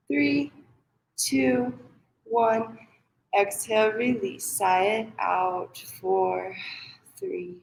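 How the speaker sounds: measured breath count, pause after each number; guided meditation. Acted. Yoga teacher counting parents through box breathing, measured guided meditation. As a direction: pace their breathing with evenly spaced counts.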